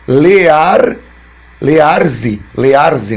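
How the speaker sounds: "lear, learze" sounded out as one reads backwards letter by letter; letter-by-letter reading. Shown as a demonstration. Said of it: "tô pronunciando pra você". (leitura letra por letra de "lear, learze")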